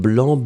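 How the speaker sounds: "blanc" ending on the vowel, C silent; silent final C. Shown as a demonstration. Teacher showing students the masculine form, "blanc" with silent C. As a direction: say "blanc" with no C sound at the end. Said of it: "you don't pronounce the final C".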